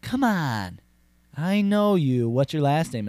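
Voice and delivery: insistent coaxing. Acted. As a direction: press him for an answer. Woman presses him for his name.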